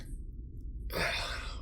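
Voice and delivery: weary, breath-only sigh; long sigh. Acted. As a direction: let out a tired breath. Character winding down for the night.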